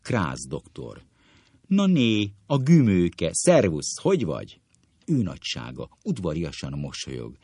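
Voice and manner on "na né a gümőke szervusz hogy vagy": surprised greeting. Acted. Old schoolmates meet, surprised greeting.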